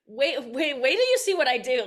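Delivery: fast, loud teasing wait wait; playful excitement. Retold or imitated. Comedian recalls the cheering crowd, a fast, loud playful plea. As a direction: rush it out, eager to show them. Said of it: "it did feel like".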